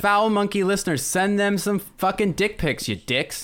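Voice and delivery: tough, bossy bad cop. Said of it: "I love that you're the bad cop now".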